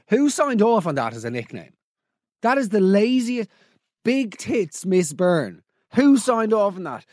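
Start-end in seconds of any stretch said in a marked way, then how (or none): 4.0-5.6 each word dragged out slowly, mocking; slow mocking repeat. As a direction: savour the silly nickname slowly. Host mockingly repeats the nickname.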